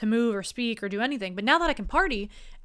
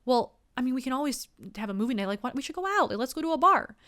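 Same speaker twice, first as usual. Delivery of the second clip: mock listener excuse; 3 semitones higher, faster than usual. Listener bailing on movie night, lightly mocked and eager. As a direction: brush off movie night, keen for a bar. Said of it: "you're gonna say".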